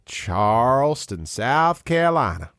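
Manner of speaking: slow, drawn-out mock Charleston Southern accent; badly faked Charleston drawl, stretched slow; terrible Southern accent. Host teasing a Charleston guest with a mock Southern accent. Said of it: "with that terrible accent".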